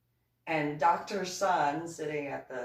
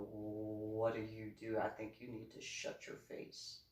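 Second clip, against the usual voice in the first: hushed scolding; 5 semitones lower, 10 dB quieter than usual. Retold or imitated. Hushing the ex-husband at table.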